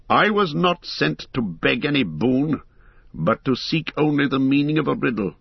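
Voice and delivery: proud answer. Acted. Boromir answers Aragorn at council, mildly proud. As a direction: hold your head up, a mild touch of pride. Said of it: "answered Boromir proudly".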